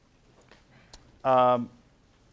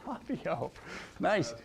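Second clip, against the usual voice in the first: soft, hushed star-struck aside; awed hush; 3 semitones higher, 12 dB quieter, slower than usual. Retold or imitated. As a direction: murmur it under your breath. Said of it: "and I'm like".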